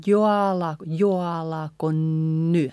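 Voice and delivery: jo alako with O gliding into A; combined vowels. Shown as a demonstration. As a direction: run jo straight into alako. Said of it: "combining these, uh, vowels".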